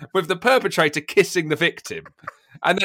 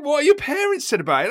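mimicking reporter; 9 semitones higher than usual. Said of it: "she's going".

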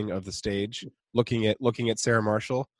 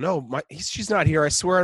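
rising, higher flustered denial; a touch panicked, climbing higher; mock flustered Peter; 5 semitones higher than usual. Peter on video call denying his sister is there. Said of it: "he's going".

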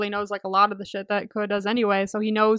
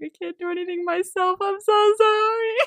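mock sulky apology; 10 semitones higher than usual. Imagining herself in Kua's shoes, high whiny self-pity. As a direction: play it as a pitiful mopey burden. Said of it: "I'd be like".

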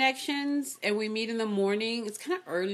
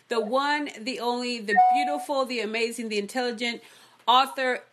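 announcer voice; 2 semitones higher, 4 dB louder than usual. Acted. Announcer hype introduction.

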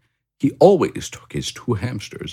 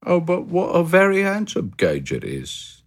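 much higher, content little hamster voice; Pip the hamster; 12 semitones higher than usual. A narrator's reading. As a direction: chirp it like a cosy, happy hamster. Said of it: "said Pip".

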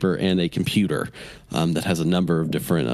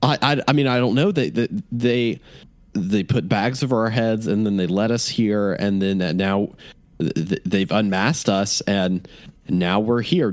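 stammering captive. Acted. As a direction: stumble over words in fear.

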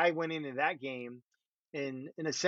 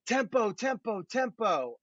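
higher, lightly hammed shout of one word; mock coach yell; 7 semitones higher, slower than usual. Quarterback imitating the head coach shouting tempo, mild mock yell. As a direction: call it out like a coach on the sideline. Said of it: "he would yell this other thing".

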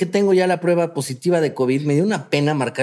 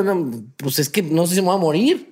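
laughing. Retold or imitated. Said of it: "Y digo".

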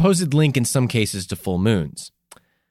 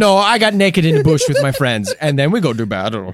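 tag; 2 semitones higher, 4 dB louder than usual. Acted. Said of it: "He's like".

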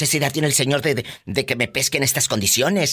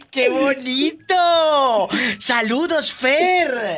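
high, very slow parrot voice; host keeps the parrot voice going; 10 semitones higher, much slower than usual. Acted. Host as parrot greeting the caller, light parrot voice.

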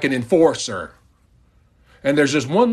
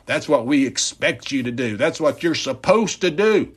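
outraged boss; 2 semitones higher than usual. Retold or imitated. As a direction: bark at the lazy elf. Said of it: "And the boss says".

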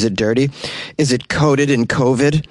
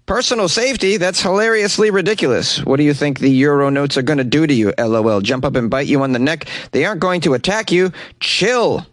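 higher mocking scoff; 3 semitones higher than usual. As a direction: read it as a sneering jab. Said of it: "mocked the salesman".

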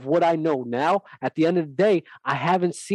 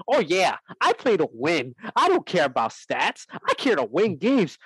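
lightly squeaky mocking imitation; mock a player's squeaky voice. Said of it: "with that squeaky behind voice".

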